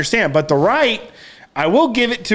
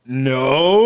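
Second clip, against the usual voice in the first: low, drawn-out reluctant answer; sheepish admission; 5 semitones lower than usual. Acted. Caught out by cohost about location, sheepish. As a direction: let it creep out guiltily. Retold guilty answer to Joel.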